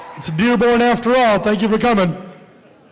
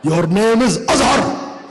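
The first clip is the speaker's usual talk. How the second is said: barking; slower than usual. Retold or imitated. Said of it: "You don't have to bark".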